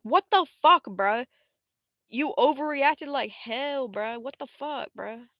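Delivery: loud, high-pitched indignant yell; outraged outburst. Retold or imitated. Heroine confronting him after he burned the planet, outraged mock yell. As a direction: blow up in exaggerated disbelief, acting it out. Acted outraged quarrel in retold story.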